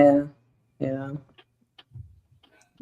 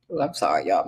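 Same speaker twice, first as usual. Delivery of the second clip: yawning; 7 dB quieter than usual. Real, not acted. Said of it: "I'm yawning".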